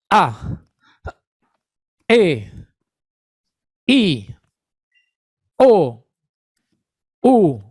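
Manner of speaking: A, E, I, O, U each popped out abruptly after holding the breath; hard glottal attack. Shown as a demonstration. Therapist demonstrating the glottal stroke to online students, hard sudden onsets. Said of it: "Podría ser un golpe glótico directo".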